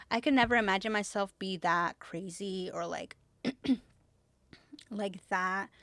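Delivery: speaking out of breath; short of breath after a rant. Real, not acted. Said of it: "I'm, like, out of breath".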